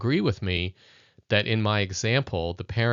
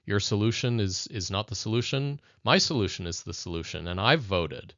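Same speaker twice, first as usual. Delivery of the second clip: authoritarian parent. Retold or imitated. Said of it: "a very authoritarian approach".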